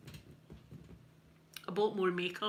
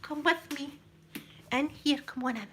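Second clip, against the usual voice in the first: higher-pitched mock coaxing; playful luring; 5 semitones higher than usual. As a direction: beckon them in, teasingly. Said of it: "Luring yous in".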